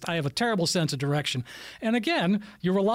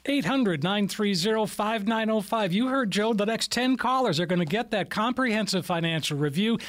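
radio ad read. Acted. Radio host reads phone number.

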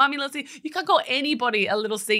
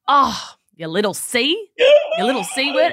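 imitating son; 5 semitones higher, 4 dB louder than usual. Son's muttered insult voiced.

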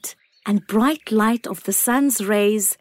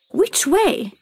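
put-on high, small childlike acorn; a tiny wondering acorn; 8 semitones higher than usual. A narrator's reading.

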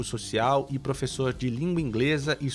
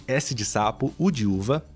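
letter by letter, each with a word; spelling it out. Shown as a demonstration. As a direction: spell it out clearly, one letter at a time. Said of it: "eu vou soletrar todas as letras pra você".

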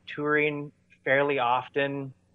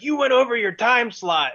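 mock indignant, much higher pitch; retold scolding; 9 semitones higher, 4 dB louder than usual. Sound guy to band on stage, mock scolding. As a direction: lightly act out an irate sound guy.

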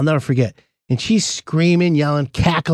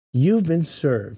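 deadpan reveal; 2 semitones lower, 4 dB quieter, much slower than usual. Retold or imitated. Process server delivers punchline.

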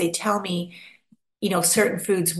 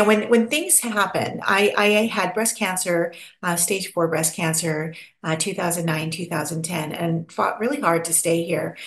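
usual speaking voice

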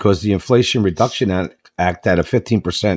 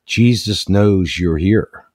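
slow, lightly acted mysterious voice; a hint of slow, ominous warning; voice in the dark; much slower than usual. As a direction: stretch it out like an unseen watcher. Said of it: "he hears a voice in the dark".

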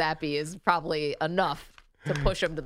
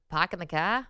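r-less Boston "Park in the car"; Boston accent. Shown as a demonstration. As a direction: drop the r in "car", Boston style. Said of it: "Give us a word".

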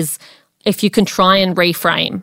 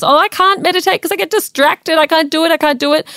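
higher-pitched whiny protest, acted out; self-doubting complainer; 9 semitones higher than usual. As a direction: imitate someone insisting they can't cope. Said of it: "someone who says".

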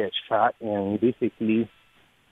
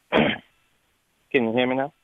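louder, slower, clearer on the line; clearer phone voice; 3 semitones higher, 3 dB louder, much slower than usual. Real, not acted. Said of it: "You sound a little better".

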